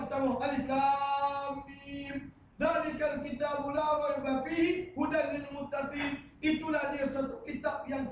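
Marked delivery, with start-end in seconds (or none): 0.4-6.3 slow chanted recitation of the verse; drawn-out Quranic chant. Shown as a demonstration. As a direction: intone it slowly like tilawah. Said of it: "Al-Surah Al-Quran".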